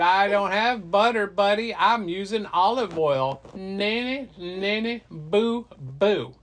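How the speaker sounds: loud, high playground teasing; mocking taunt. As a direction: gloat at him, ending in a childish jeer. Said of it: "she just starts laughing and laughing at him".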